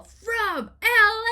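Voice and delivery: stretched, high, loud shout; slow, belting stage shout; band yelling. Retold or imitated. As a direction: yell it like a band hyping the crowd. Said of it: "I heard them yell".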